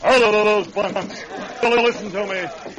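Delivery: slow, loud ringing authority; commanding voice. Acted. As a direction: command the whole room. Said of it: "his voice rang with authority".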